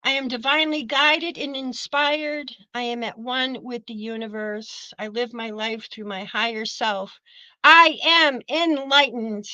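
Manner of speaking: measured affirmation read for students to echo; affirmation for the class to repeat. Shown as a demonstration. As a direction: lead the class line by line. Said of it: "Everybody repeat after me".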